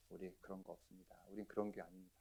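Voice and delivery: low, soft, steady denial; bold composure. Retold or imitated. Pastor holds firm before the threatening brother, composed denial. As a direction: deny it in a low, quiet voice. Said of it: "끝까지 담대함으로".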